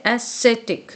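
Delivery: ascetic slowly as "a-SET-ik"; pronunciation demo. Shown as a demonstration. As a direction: model ascetic slowly for learners to copy. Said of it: "बार बार pronounce करना है". (ascetic का धीमा, साफ़ उच्चारण)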